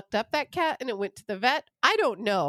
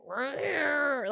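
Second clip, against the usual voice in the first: imitated cat growl; 3 semitones higher, 4 dB quieter than usual. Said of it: "one of our cats just going".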